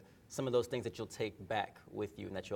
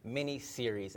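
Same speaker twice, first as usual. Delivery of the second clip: lively, slightly louder podcast welcome; super excited; 3 semitones higher, 4 dB louder than usual. Real, not acted. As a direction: kick off the show with real energy. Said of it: "by the energy in my voice".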